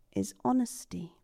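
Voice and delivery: softly whispered name; tender whisper. Acted. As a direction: breathe the name like a secret. Strongwind names her tenderly.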